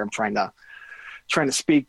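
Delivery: thick-tongued, slurred medicated speech. Real, not acted. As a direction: talk as if your tongue is too big. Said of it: "my tongue feels bigger than my mouth".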